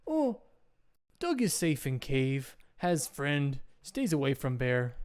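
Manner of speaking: lightly voiced simple caveman; a hint of a slow, contented cave dweller; caveman Doug. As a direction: reassure them in simple caveman speech. Game master plays Doug.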